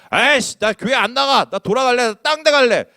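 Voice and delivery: stamp your foot and shout it; petulant outburst. Retold or imitated. Churchgoer threatening to leave church, mock tantrum. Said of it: "이렇게 말하는 사람".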